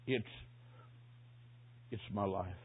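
hoarse whisper. Retold or imitated. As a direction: imitate a weak dying man, soft and halting. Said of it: "Then a hoarse whisper".

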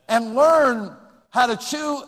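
slow, drawn-out mocking tone with a laugh; mocking a trivial skill with a laugh. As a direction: sarcastically stretch it out, laughing.

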